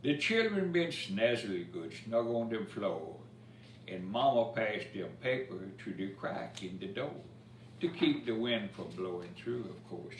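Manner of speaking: lively storybook reading in Cajun dialect; rhythmic bedtime-story recital; reading a rhymed story. A narrator's reading. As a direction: read the verse to children with a bounce. Reads Cajun Christmas poem aloud.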